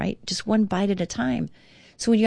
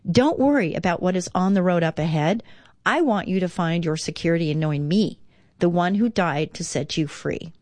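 devotional reading. Acted. Reads Jesus' words devotionally.

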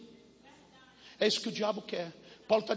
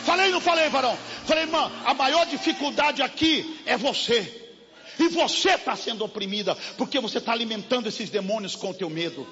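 fiery preaching; 4 semitones higher than usual. Acted. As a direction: preach it hard at the congregation. Preaching at full force.

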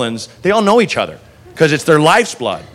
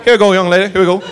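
southern cop; 3 semitones higher, much faster than usual. Retold or imitated. Cop steering her out.

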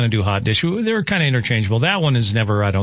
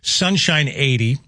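measured radio forecast, key words drawn out; radio weather report delivery; weather forecast read. Real, not acted. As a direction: read out the forecast, lifting each new day. Reads the forecast.

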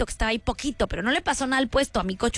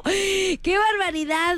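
asombro exagerado; 5 semitones higher, slower than usual. Real, not acted.

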